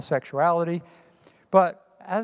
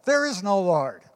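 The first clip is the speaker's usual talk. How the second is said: mock yell; 4 semitones higher than usual. Atheist yelling back at the old lady next door, mild mock yell. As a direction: fire it back at the neighbor. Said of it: "and yell".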